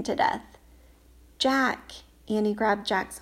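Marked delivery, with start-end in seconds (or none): 1.4-1.9 urgent call, louder. Acted. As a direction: shout his name in alarm. Annie grabs him from water.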